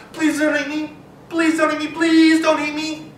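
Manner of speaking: high, pleading mouse squeak; squeaky pleading. Acted. Mouse begs the lion not to eat her, high squeaky plea. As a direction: squeak it out, begging. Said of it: "squeaked out as loudly as she could".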